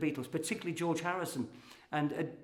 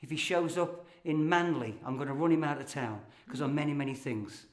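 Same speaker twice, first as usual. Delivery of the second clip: light rhythmic recitation of a funny poem; comic poem reading. Acted. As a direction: perform the verse for laughs.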